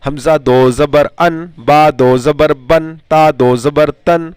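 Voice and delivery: measured, rhythmic letter-by-letter chant; spelling drill recitation. Shown as a demonstration. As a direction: recite it evenly for pupils to repeat.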